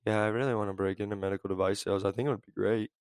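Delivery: lightly voiced listless job seeker; low-energy caller. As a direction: mimic a flat, bored caller. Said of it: "people talk like this".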